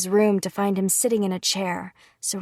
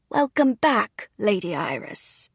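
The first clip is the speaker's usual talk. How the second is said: slow, formal chorus of servants; bow and welcome the lady slowly; servants' greeting; slower than usual. Acted. Servants greeting her at the door.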